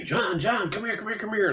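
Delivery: high, calling out from the yard; mock kids calling across the street; yelling his name. Kids on blankets calling the paperboy over, high calling voice. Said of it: "they yell at me".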